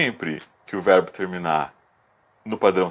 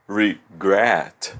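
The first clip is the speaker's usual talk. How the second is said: Regret split slowly, re... GRET; stress on last syllable; 2 semitones lower than usual. Shown as a demonstration. Teacher repeating the example for students, Regret with GRET stressed. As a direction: pause inside Regret, then stress GRET. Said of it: "elas são as últimas sílabas fortes".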